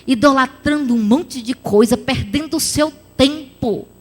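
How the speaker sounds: ordinary talk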